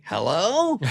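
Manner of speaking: high, loud mock Norm voice; mock Norm on the phone. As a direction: put on Norm's sly late-night phone voice. Late night call impression.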